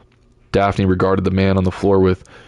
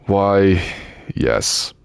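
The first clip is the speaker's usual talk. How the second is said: falsely polite. A narrator's reading. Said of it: "her voice patently false".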